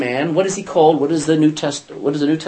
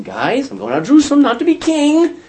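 casual, higher telling to his friends; lightly voiced Jesus; 10 semitones higher than usual. Jesus telling the disciples his plan, lightly voiced. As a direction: tell the guys straight but lightly. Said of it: "Jesus again in Matthew twenty".

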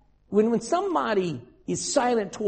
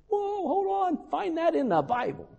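startled objection; 10 semitones higher than usual. Retold or imitated. Preacher answering his despairing college friend, startled. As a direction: stop him short, half amazed. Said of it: "And I'm like".

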